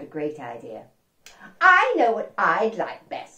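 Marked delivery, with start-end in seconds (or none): 1.6-3.4 frog voice. Acted. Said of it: "said Froggy".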